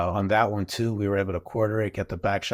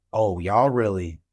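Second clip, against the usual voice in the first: amazed drawl; 3 semitones higher, 5 dB louder, much slower than usual. Retold or imitated. Friend's amazed reaction.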